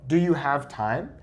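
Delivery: a question, pitch climbing to "time"; question intonation. Shown as a demonstration. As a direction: voice rising through "have time". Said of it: "when I want to ask a question".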